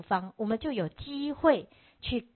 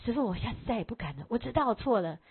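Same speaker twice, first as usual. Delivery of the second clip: begging; faster than usual. Retold or imitated. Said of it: "他就开始哀求".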